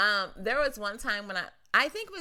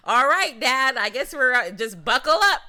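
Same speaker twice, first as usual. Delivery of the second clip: put-on resigned kid; 8 dB louder than usual. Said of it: "And I'm just like".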